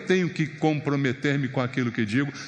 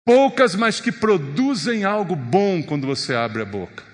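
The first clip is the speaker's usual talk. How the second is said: ordinary talk, nothing marked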